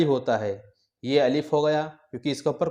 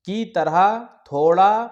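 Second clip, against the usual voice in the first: drawn out; 3 semitones higher, 4 dB louder, slower than usual. Shown as a demonstration. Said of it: "کھینچ کر پڑھنا چاہیے".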